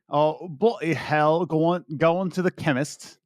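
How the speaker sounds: mock South London British accent. Shown as a demonstration.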